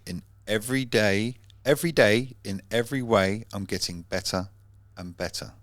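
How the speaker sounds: chanted affirmation, rising on each every; recited mantra. Shown as a demonstration. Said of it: "the saying is".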